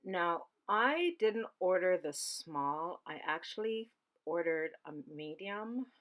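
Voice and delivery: talking while crunching chips; chewing crunchy chips mid-sentence. Real, not acted. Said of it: "sorry for the crunching in the background".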